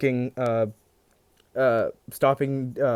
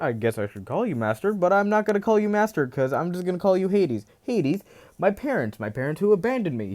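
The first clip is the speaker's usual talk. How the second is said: higher, fast, unhinged mocking taunts; manic crazed rant; 6 semitones higher than usual. Deku taunts Hades and his parents, high manic ranting. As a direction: rave like a madman laughing at the gods. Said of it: "he says".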